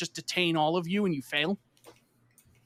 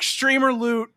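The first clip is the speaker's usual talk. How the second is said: mock jeer; 6 semitones higher, 5 dB louder, slower than usual. Friends mock his lucky drop.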